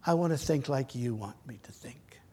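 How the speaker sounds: a hushed, breathy prayer whispered to God. Acted.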